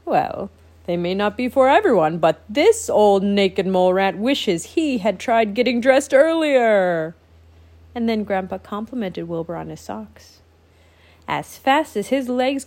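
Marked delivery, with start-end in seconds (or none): 0.1-7.1 regal proclamation. Acted. Grandpa proclaiming.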